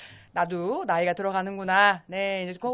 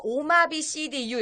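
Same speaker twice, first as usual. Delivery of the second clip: slow spelled-out acronym; 5 semitones higher, slower than usual. Shown as a demonstration. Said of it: "줄여서".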